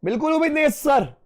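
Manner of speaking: lightly voiced cheeky class; mock student reply. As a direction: tease the teacher as a student. Voicing students' mocking reply.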